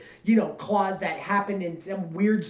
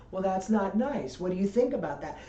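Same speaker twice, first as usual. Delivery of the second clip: put-on patronizing baby talk; 3 dB quieter than usual. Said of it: "talking to you like a baby".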